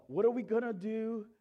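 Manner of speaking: loud, high acted panic; freaking out. Disciples to each other in the storm, acted panic. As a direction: cry out like a frightened crewman. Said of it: "The freaking out".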